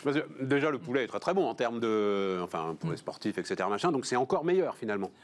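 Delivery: chewing while talking; talking with mouth full. Real, not acted. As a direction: speak around a big bite. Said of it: "je parle la bouche pleine".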